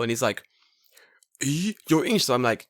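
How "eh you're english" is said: higher-pitched baffled query; mock surprise. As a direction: imitate puzzled disbelief. Retold shocked reaction.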